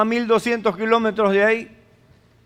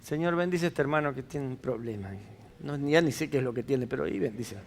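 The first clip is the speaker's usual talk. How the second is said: oración desganada; 6 semitones lower, 11 dB quieter, faster than usual. Retold or imitated. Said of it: "Esa es su forma de interceder".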